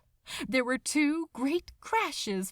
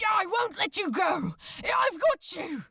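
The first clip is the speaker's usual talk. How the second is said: desperate reassurance; 8 semitones higher than usual. Acted. Crowley promises Aziraphale he won't drop him, desperate. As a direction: shout it to keep him holding on.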